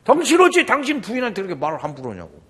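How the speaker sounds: loud, fast re-enacted telling-off; retold angry scolding. Speaker scolding a pastor about his wife, retold anger. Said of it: "내가 막 화를 냈어요".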